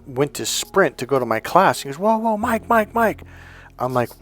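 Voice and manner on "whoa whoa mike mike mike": high-pitched, urgent "hold on" call; calling someone back. Retold or imitated. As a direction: imitate a friend stopping someone, pitched well up. Friend calling back a sprinting classmate.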